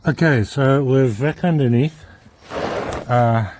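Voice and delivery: talking with something in mouth; mouth full. Real, not acted. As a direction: speak around a mouthful. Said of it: "sorry, I've got something in my mouth".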